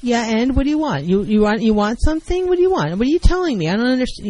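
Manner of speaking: aggressive. Shown as a demonstration. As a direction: badger the partner to spit it out. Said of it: "We got aggressive".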